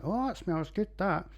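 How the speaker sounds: high delighted "oh, that smells good"; pleased reaction to the smell; impressed sniff. Retold or imitated. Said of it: "and was like".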